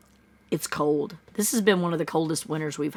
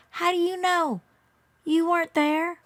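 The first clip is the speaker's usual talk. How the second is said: sarcastic; 11 semitones higher than usual. Real, not acted. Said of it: "sarcastic challenge".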